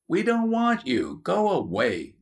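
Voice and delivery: put-on girl shouting up the shaft to the boy. A narrator's reading. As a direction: tell him to go away, raising the voice. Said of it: "shouted Hope".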